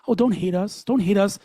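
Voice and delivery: high, whiny pleading; mock apology. Guest mocking Jews apologising online, high whiny plea. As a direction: mimic someone begging not to be hated. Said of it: "we are apologizing yet again".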